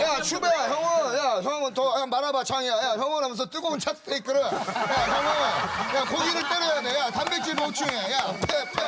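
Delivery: lightly hammed-up drunken ramble; drunk senior. Comedian mimics drunk senior at the table, tipsy rambling. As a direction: imitate a tipsy senior urging on his junior. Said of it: "아, 취하셨구나".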